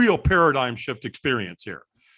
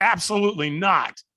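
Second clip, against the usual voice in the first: curt, blunt, ticked-off, pitched up; 5 semitones higher than usual. Retelling his reply when asked if he'd walk tonight: retelling an annoyed refusal. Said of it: "kind of ticked off at it".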